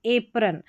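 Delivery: एप्रन in two syllables, "AY" then "prun"; alphabet-sound A. Shown as a demonstration. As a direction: give एप्रन a long letter-name A. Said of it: "ए को alphabet sound से बोला जाएगा".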